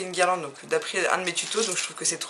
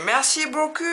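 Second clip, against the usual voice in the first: French thanks in a mock American accent, pitched higher; 8 semitones higher, 3 dB louder than usual. A fan mimics a performer thanking the concert crowd, mock American accent. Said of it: "Avec son petit accent anglais".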